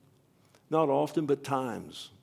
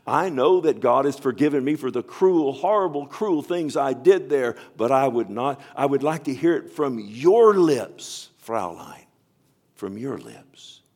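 louder, higher pleading; guard's plea; 3 semitones higher, 9 dB louder than usual. Retold or imitated. Former guard begging Corrie for forgiveness, loud plea. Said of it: "He says".

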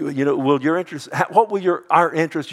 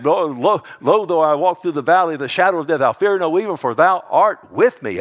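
fervent quoting; 5 semitones higher, 6 dB louder than usual. Real, not acted.

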